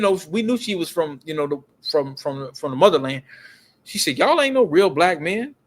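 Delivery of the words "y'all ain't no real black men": lightly imitated African accent; a hint of a woman's African accent. African woman challenging two men at the gas station, lightly mimicked accent. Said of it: "But she had an accent".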